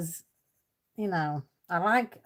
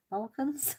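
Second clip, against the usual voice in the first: "Balkans?" asked with a high questioning rise; checking if "Balkans?" is said right; unsure rising Balkans; 7 semitones higher, 4 dB quieter than usual. Shown as a demonstration. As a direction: try "Balkans?" tentatively, pitch climbing up. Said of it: "Have I said that right?".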